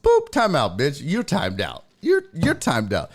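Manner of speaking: mock sassy comeback, punchy start; sassy retort. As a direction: imitate a sassy time-out dismissal. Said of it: "C C getting sassy".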